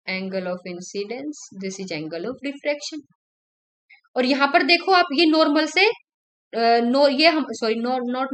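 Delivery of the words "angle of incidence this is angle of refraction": slow dictation. Shown as a demonstration. Teacher spelling out key terms.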